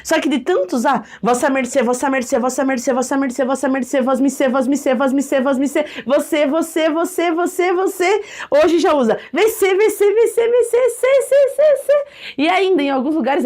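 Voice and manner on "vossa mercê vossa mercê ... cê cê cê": rising demo. Shown as a demonstration. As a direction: chant it shorter and shorter, rising each time. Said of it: "showing word erosion".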